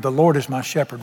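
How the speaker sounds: slow, savoured psalm reading; unhurried scripture read; read slowly. Shown as a demonstration. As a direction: let each word sink in slowly. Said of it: "real slow".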